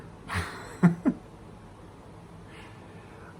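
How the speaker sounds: breathy, unvoiced wheezing laugh. Storyteller recalling the hat joke, wheezing laughter. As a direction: act out a drawn-out wheeze of laughter. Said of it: "I start laughing".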